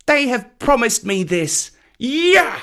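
put-on high, gloating childish taunt; boast, then yelp the last word; high-pitched cheeky crowing; shouting boy. A narrator's reading. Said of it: "shouting at the top of his voice".

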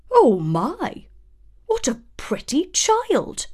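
high, delighted little dwarf; excited dwarf. A narrator's reading. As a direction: gasp with delight at the child. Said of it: "one of them exclaimed".

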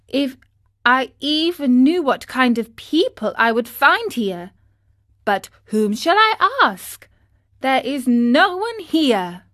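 put-on a little wooden boy wondering aloud; lightly voiced marionette, lost and longing; Pinocchio's voice. A narrator's reading. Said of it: "he said to himself".

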